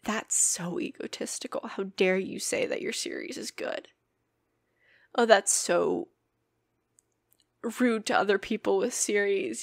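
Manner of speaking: lightly voiced inner critic. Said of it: "the voice saying".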